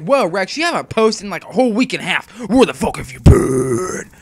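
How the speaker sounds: mock angry viewer. Viewer scolding Rex for not posting, mock angry. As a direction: play the impatient viewer demanding answers. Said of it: "And you're like".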